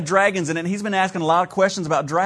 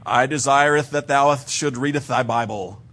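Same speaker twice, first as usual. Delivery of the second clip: lower, archaic mock-solemn voice of God; mock King James God; 4 semitones lower than usual. Pastor parodying a churchy answer from God in mock King James voice. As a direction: intone like a stiff old Bible.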